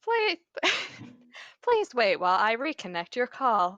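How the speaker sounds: polished, overly polite operator voice; customer service voice. Acted. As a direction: sound like a phone support agent. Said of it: "Breaking out the customer service voice".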